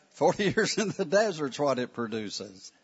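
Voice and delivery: the line again with a laugh in the middle; laughing retake. Shown as a demonstration. Teacher redoing the line, laughing at himself. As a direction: laugh through years, then finish it. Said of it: "I didn't need that word".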